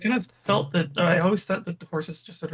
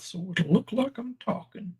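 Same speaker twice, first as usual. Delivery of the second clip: mouth full of peanut butter; 2 semitones higher than usual. Pretend. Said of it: "Producers put peanut butter in my mouth".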